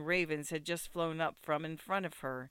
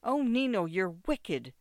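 tearful; 3 semitones higher, 5 dB louder than usual. Acted. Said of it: "the tears stood in Ida's eyes".

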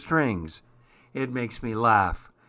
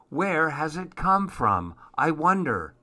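christmas elf; 4 semitones higher than usual. Acted. Elf's thought voiced.

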